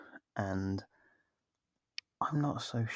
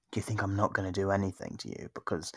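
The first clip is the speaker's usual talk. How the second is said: normal talking voice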